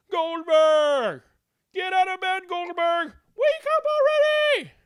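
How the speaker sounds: high loud exasperated yell; maids yelling. Acted. Maids yell at sleeping musician, high loud yell. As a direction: screech at him to get up. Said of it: "they would yell too".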